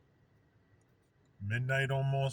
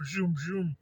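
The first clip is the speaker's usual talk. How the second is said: higher-pitched whooshing zooms; imitated flashes whizzing by; 6 semitones higher than usual. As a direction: mimic streaking rockets with zooms. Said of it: "flashes of light".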